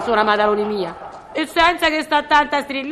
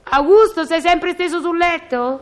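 calling out; 5 semitones higher than usual. Acted. Concierge calls her husband lying in bed, calling out. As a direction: call across to the husband in bed.

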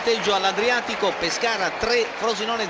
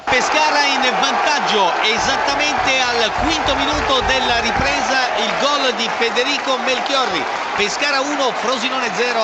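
loud goal report; 3 semitones higher, 4 dB louder than usual. Real, not acted. Goal flash on radio.

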